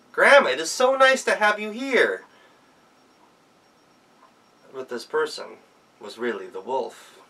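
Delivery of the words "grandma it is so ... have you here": put-on high, loud girlish voice; bright child greeting grandma; excited little girl. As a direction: chirp it like a happy child. Girls greeting grandma in story.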